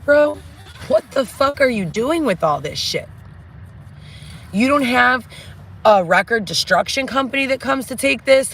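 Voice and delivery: berating the manager about the loose paperwork, exasperated; retold exasperated rant. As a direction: let the outrage climb and spill over. Retold ranting at manager Dave.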